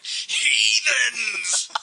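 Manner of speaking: high yelled cry of heathens; mock shout. Friend pretending to shout at the movie screen, hammed-up yell. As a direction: bellow it at the screen like a madman.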